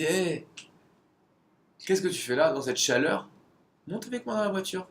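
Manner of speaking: a Texan stranger offers the runner a ride, in a mock cheery call; big Texan driver. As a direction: play the loud Texan calling from his Cadillac. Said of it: "Je sais pas faire l'accent texan".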